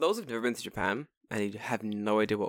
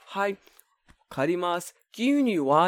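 brisk barista; 6 semitones higher than usual. Retold or imitated. Barista voiced in retold story.

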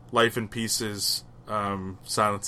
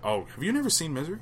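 obsessed fan; 6 semitones higher, 4 dB quieter, much faster than usual. Retold or imitated. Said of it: "So she's like".

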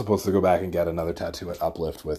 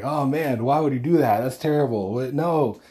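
reacting to TV; 7 semitones higher than usual. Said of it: "I'm yelling at the T V".

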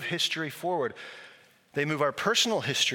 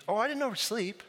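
much higher voice of a woman confessing her tears; high, pleading, teary confession; tearful woman; 9 semitones higher than usual. Retold or imitated. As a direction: voice her apology, near crying. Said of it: "She says".

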